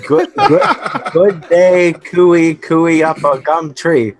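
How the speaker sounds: put-on host gamely fumbling an Australian accent for his guest; mock Aussie accent. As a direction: have a go at sounding Australian, laughing through it. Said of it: "maybe you could give me a bit of".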